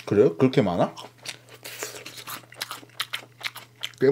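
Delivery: speaking with food in mouth; words between apple bites; chewing apple while talking. Real, not acted. Seen 3: Holds bitten apple throughout, bites at 10.3, mouth working between words.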